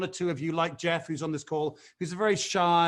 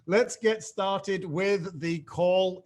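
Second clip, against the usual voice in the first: slow, chuckling words; laughing through it; much slower than usual. Real, not acted. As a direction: giggle the words out slowly. Laughing while restarting the sentence.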